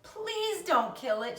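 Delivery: high, slow begging; pleading cry. A narrator's reading. Fern begging her father, slow tearful plea. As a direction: draw out the plea like a tearful child. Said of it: "she cried".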